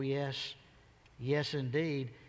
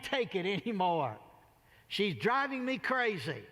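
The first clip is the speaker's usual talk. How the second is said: exasperated judge monologue; 3 semitones higher than usual. Retold or imitated.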